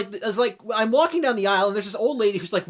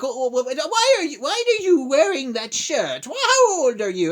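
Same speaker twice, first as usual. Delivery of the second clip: put-on shocked old lady; 3 semitones higher than usual. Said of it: "she's all like".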